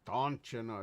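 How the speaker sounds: light mock Minnesotan; a hint of put-on Minnesota accent. Streamer echoing a local catchphrase, light Minnesota accent. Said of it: "I suck at accents".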